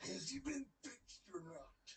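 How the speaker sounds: Macho Man voice. Retold or imitated. Macho Man quote, slow.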